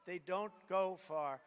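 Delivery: put-on slow, childish sing-song; mock first grader voice. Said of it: "That's like a first grader".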